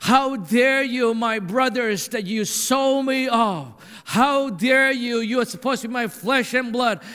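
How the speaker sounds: a touch of indignation, dragging out how dare you; angry Joseph. Acted. Preacher voicing Joseph confronting brothers who sold him, measured anger. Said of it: "how he was so angry".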